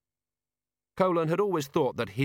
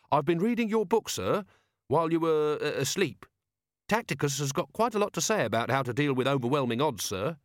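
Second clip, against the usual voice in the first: eager, respectful subordinate, pitched higher; keen Carrot; 5 semitones higher than usual. Acted. Carrot telling Vimes about the book, eager and respectful. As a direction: report keenly to a superior. Carrot addresses his commander.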